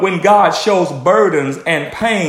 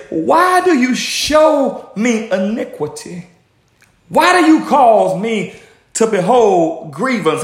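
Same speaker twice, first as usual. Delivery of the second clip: pleading complaint; 3 semitones higher than usual. Acted. Prophet questioning God over the evil he is shown, pleading complaint. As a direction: put the question to God in slow, raised protest.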